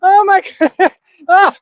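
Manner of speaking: high, incredulous words through laughter; can't stop laughing. Real, not acted. Repeating the villain's name in disbelief, cracking up. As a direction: squeal it out between real laughs. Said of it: "can't stop laughing".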